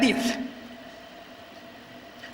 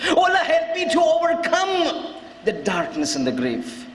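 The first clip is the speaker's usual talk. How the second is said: fervent supplication; 2 semitones higher than usual. Retold or imitated. Imam begging God's help for the grave, fervent supplication. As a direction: implore with stretched, emphatic words. Preacher translates the plea fervently.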